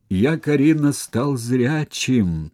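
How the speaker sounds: high, slow, tearful admission; crying confession. Acted. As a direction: confess it through tears. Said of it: "плача признался он".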